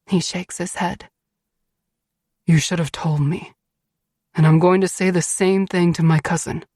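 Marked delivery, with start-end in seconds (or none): 2.5-6.6 slightly deepened male character voice, firm; stern Beast, scolding. A narrator's reading. Beast telling his wife off, stern. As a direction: play a stern husband laying down the law.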